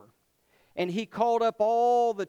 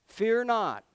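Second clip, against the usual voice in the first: "Fear not." ringing out louder and higher; proclaimed fear not; 4 semitones higher, 5 dB louder than usual. Shown as a demonstration. Preacher proclaiming to the congregation, loud declaration.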